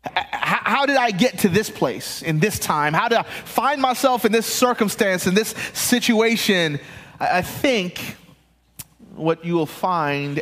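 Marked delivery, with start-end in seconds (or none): 0.1-6.8 wondering self-question. Retold or imitated. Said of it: "asked the question".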